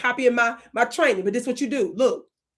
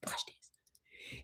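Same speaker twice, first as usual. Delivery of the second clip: hushed whisper aside; 23 dB quieter than usual. Shown as a demonstration. Comedian whispering an aside to the audience. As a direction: whisper it conspiratorially. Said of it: "whisper aside".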